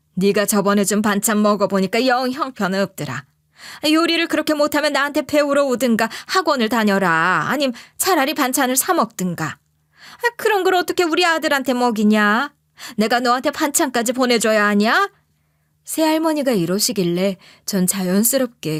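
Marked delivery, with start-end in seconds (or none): 0.2-15.1 mock angry yelling. Retelling a step-grandmother's complaint over speakerphone: imitating someone yelling angrily. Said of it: "버럭 소리를 지르시는 거예요".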